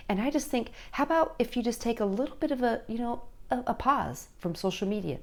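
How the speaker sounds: put-on soft, casual suggestion to a teen; easygoing parent, softly spoken; lighthearted, no big deal. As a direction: float it gently, as no big deal. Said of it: "make it real lighthearted, you know, like, kinda like no big deal".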